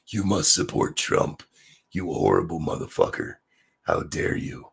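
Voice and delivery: quiet sneering mock outrage; lightly mock the scolding crowd; fading to an airless mock gasp. Mocking the opponents' outrage.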